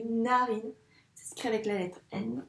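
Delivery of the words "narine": "narine" with the initial n held; drawn-out opening of "narine"; first sound stretched. Shown as a demonstration. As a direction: hum into "narine" on the n. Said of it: "ce qu'on entend au début".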